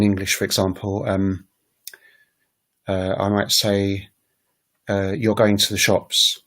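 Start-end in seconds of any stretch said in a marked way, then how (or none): 5.2-6.4 "You're going to the shops" as a statement, gently falling; falling statement intonation. Shown as a demonstration. Teacher showing a statement, "You're going to the shops" with falling tune. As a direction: let "You're going to the shops" fall to the end. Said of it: "is a sort of falling".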